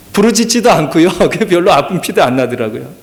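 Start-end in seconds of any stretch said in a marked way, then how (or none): none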